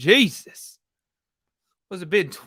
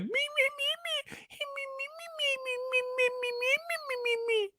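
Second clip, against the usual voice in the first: high whiny me-me-me; mock a whiny dirtbag, high and thin; 10 dB quieter, much faster than usual. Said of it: "the whiny voice dirtbag dude".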